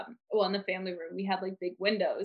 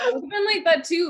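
laughing; 8 semitones higher, 5 dB louder than usual. Real, not acted. Laughs while agreeing.

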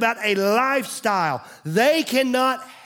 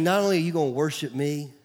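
soft, low, intimate voice of God; God's voice, hushed; 7 semitones lower, 7 dB quieter than usual. Acted. Pastor voicing God's words to his church, hushed and low. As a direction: drop to a near whisper as God speaking. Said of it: "He's saying".

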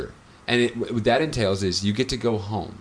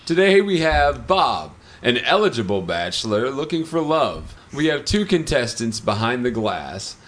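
flirty teasing dating host; 2 semitones higher, slower than usual. Pretend. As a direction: work the crowd like a TV host. Game show host.

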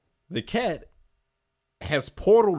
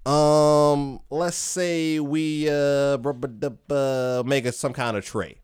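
hesitant stalling; slower than usual. Acted. King improvises an offer to Sphinx.

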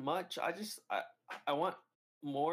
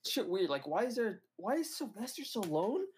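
excited, higher pitch; excited fan asking for weirder superhero films; excited rant; 8 semitones higher than usual. Real, not acted. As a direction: pitch up with enthusiasm. Excited rant about weird movies.

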